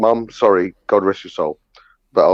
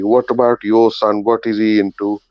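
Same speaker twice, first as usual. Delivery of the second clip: Indian mum. Retold or imitated. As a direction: mimic mum quizzing the auntie. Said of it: "my mum goes to the auntie".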